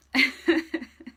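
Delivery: a short high laugh through tears; tearful laugh. Real, not acted. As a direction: laugh it off, a little overwhelmed. Emotional live card reading.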